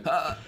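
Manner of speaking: high, strangled aborted yell; voice catching. Acted. Fielder with nothing to yell back, voice catching. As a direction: start a comeback, catch on a high "ah". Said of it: "your voice, um, catches".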